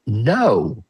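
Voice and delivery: playful, emphatic voice of wanting; mock insistence; protesting inner voice. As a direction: act out an insistent inner part, laugh breaking in. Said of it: "the voices that say".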